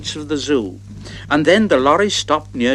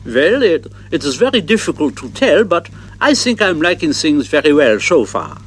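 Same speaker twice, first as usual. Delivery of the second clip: German giraffe voice. Acted. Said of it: "the German giraffe, said".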